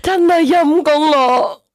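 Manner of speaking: high, slow, breathless with laughter; gasping out words mid-laugh; laughing through words. Real, not acted. (笑到上氣唔接下氣)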